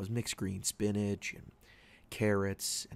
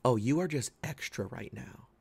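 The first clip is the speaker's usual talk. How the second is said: slang demo; 4 semitones higher, 4 dB louder than usual. Shown as a demonstration. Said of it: "when you call someone extra".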